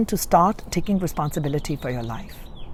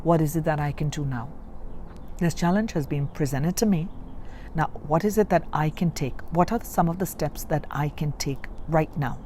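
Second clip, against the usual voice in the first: calm self-talk; 2 semitones lower, 5 dB quieter than usual. Retold or imitated. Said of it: "and now I just say".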